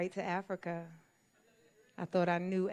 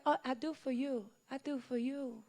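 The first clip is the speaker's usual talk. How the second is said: mock helpful woman; 5 semitones higher, 5 dB quieter than usual. Voicing helper woman.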